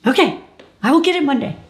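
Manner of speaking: dazed echo. Retold or imitated. Patient echoes the nurse, dazed and high. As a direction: parrot it back in a daze.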